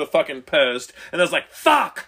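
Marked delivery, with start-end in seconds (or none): 1.5-2.1 1 retold pained curse. Tripped into a post.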